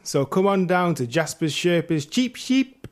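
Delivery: lightly hammed-up advert read; pitchman voice. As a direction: sell the sheep like a cheesy TV salesman. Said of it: "Can I do it in an accent?".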